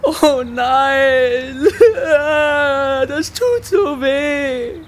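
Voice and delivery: mock sobbing through giggles; half-laughing sob. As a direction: fake a tearful whimper with giggles. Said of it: "Der Kürbis schluchzte".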